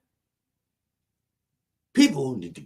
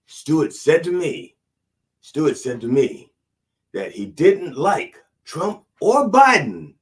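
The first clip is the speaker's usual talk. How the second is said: incredulous preaching; 5 semitones higher, 6 dB louder, slower than usual. Acted. Outraged preacher repeating Stuart's words.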